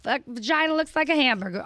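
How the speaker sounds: high-pitched public mock scolding; imitated comedian's callout. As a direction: announce it to the room, mimicking her. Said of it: "And then she was like".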